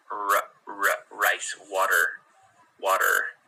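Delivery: slow rolled r in "rice" and "water"; clear R. Shown as a demonstration. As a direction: drill the r slowly. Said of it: "important that you say rice".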